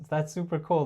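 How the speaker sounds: eager, pleading "that's super cool"; needy, over-eager "that's super cool". Shown as a demonstration. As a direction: say "that's super cool" like you need her approval. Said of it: "like, pleading".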